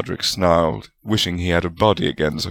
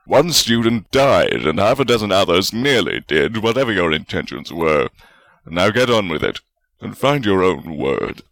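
stern scolding; 3 dB louder than usual. A narrator's reading. Godric still scolding loudly.

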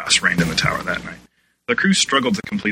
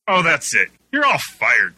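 higher, louder fed-up shout; 6 semitones higher, 4 dB louder than usual. A narrator's reading. Director Dan firing the whole chaotic cast, shouting. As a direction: throw up your hands and yell. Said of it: "Dan shouted".

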